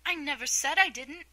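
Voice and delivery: loud, high indignant interruption; protesting. A narrator's reading. Alice interrupting the Mock Turtle, loud protest.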